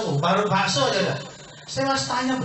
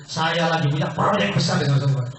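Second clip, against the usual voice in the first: enthusiastic; 4 semitones lower than usual. Shown as a demonstration. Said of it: "Ngomongnya antusias gitu".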